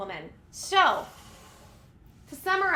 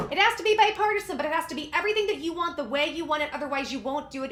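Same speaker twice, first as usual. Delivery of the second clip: mocking paraphrase; faster than usual. Host mocks Pelosi's demands to viewers, sarcastic fast mimic. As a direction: throw her logic back at her, sneering.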